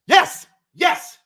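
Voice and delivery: high, loud yelp of joy; real burst of fan delight; excited cheer. Real, not acted. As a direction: leap up cheering for the team. Cheering a good run.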